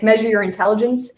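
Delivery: ordinary talk, nothing marked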